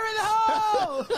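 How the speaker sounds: laughing. Real, not acted. Laughing loud joke.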